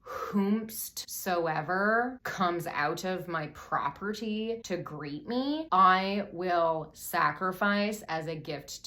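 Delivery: slow, drawn-out mock-solemn proclamation; super dramatic vow. Jeff vowing before his biker gang, super dramatic. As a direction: declaim it like a grand oath. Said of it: "this super dramatic vow".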